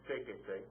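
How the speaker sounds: "séquese" stressed on the first syllable, SE; stress third syllable back. Shown as a demonstration. Teacher building a command, "séquese" stressed on SÉ. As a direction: lean on the SÉ of "séquese". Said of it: "stress is on the third syllable back".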